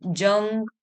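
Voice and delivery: "जंग" drawn into a humming ng; nasal ng sound. Shown as a demonstration. Teacher showing how ang sounds, ringing ng in "जंग". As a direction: say "जंग" as jang, holding ng. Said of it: "अंग, इस तरीके से".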